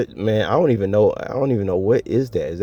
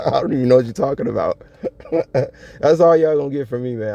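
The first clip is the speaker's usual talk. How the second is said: laughing denial, pitched up; amused; 5 semitones higher, faster than usual. Real, not acted. Laughing at people who talk about him, amused. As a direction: deny it through bursts of laughter. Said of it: "I'm just over here just laughing at people".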